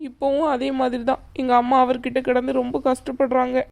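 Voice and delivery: pleading through tears; tearful. Acted. Daughter apologising to her aunt for her father's abuse, tearful. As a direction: apologise and confide, on the verge of sobbing. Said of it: "ஏன் இப்படி போட்டு அழுதுட்டு கிடக்க".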